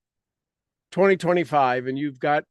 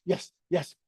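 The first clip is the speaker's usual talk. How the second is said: mild cheer. Shown as a demonstration. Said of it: "don't need to get yelling or screaming, but you can".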